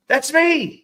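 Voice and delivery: high-pitched imitation of an excited reply; imitating Chris. Retelling a funny story to friends, high mimicked reply. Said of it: "And Chris is like".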